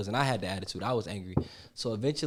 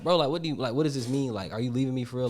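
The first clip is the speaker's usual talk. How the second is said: retold emotional plea; 3 semitones higher, 5 dB louder, faster than usual. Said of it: "when I get emotional, I start blowing shit up".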